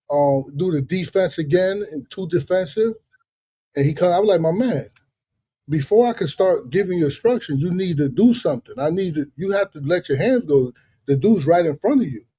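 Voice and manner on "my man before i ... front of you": steady, patient coach talk; calm corner instructions. Retold or imitated. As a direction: keep it even, just instructing the fighter. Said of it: "I was calm".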